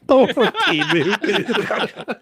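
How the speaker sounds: laughing the words out, high and slow; cracking up mid-phrase; giggling through each word. Real, not acted. Laughing at a chat joke.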